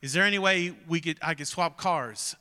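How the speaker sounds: polite, restrained retold request; respectful request. Renter asking the clerk to swap cars, mildly respectful. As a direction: ease into it carefully, trying not to offend. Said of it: "I was trying to be respectful".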